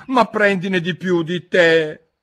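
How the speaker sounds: high, slow, loud urging; solemn March Hare offer, pitched high; extremely serious. A narrator's reading. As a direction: press it on them with great earnestness. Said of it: "con estrema serietà".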